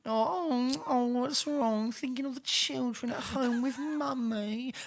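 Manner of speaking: high, sing-song mock pity; mocking taunt. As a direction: coo at the victim cruelly. Taunting imagined victim.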